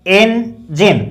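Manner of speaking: "इंजन" split into en and jin; correct pronunciation. Shown as a demonstration. Teacher showing the e sound, "इंजन" as two separate syllables. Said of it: "एक ही sound है".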